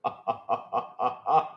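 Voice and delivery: low, soft staccato laugh. Real, not acted. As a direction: chuckle in separate even beats. Amused reaction to trailer.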